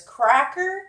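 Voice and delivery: "cracker" squawked high like a parrot; parrot saying cracker. Retold or imitated. The parrot calling "cracker" in a high squawk. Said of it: "Julio says".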